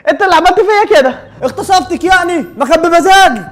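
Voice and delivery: laughing pained. Acted. Laughing through labor argument.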